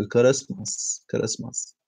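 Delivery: Christmas with an extra vowel, "kerismas"; bad pronunciation. Shown as a demonstration. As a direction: say Christmas the Arabic-accented way, "ke-RIS-mas". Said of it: "the bad pronunciation".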